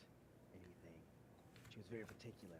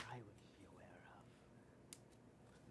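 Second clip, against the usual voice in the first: whisper; 2 semitones lower, 7 dB quieter, much slower than usual. Acted. NPC trails into whisper.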